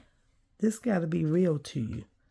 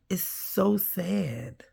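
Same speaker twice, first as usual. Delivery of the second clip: real grief, breath only; close to tears; 3 semitones higher, slower than usual. Real, not acted. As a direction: say it as if you might cry. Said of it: "I could just cry".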